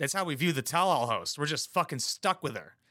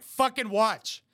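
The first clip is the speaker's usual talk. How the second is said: louder, higher, slow barked order; mock producers' order; 5 semitones higher, 4 dB louder, slower than usual. Mocking producers ordering her to watch, loud slow bark. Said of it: "they're like".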